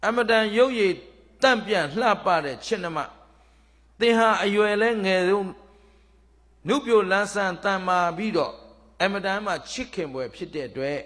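loud, high declamation of courtly praise; wooing deity. Acted. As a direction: proclaim your admiration like a storybook suitor. Deity woos the princess in story.

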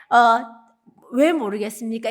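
ordinary talk

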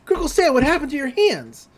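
put-on high, alarmed kids' cries; mock panic. The kids horrified at Stan's missing hands, high. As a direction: shriek in horror at his hands. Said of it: "they're like".

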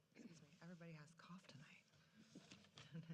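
hushed, breathy apology; a quick whispered excuse-me into the mic; whispered aside. Real, not acted. Speaker at the podium whispering an apology for the coughing.

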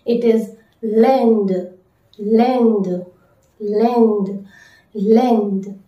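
L'Inde said as lend, nasal vowel; slow French model word; French pronunciation. Shown as a demonstration. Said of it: "How to say India in French?".

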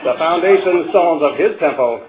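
mock-solemn teasing rhyme in a local Ottawa Valley accent. Teammates teasing the lone Protestant at halftime, Ottawa Valley accent. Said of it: "in the accents of our, of our tribe".

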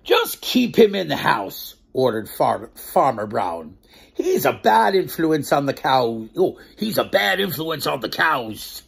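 slow, clear storybook narration; reading to children. A narrator's reading. Storyteller narrating the farm tale to children. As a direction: read it out slowly for little ones. Reads the picture book aloud.

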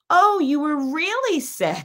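high, drawn-out mock astonishment; slowly dawning surprise, imitated with amusement; amused realisation. Retold sudden realisation, amused teller.

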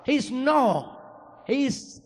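put-on high, loud, stubborn toddler voice; a small boy refusing to be corrected; child insisting. Son correcting his papi about the truck, high loud child voice.

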